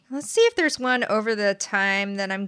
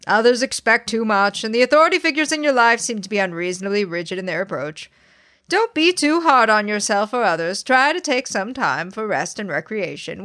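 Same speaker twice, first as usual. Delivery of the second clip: honeyed southern lawyer drawl. Acted. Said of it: "you read that like a Southern lawyer or something".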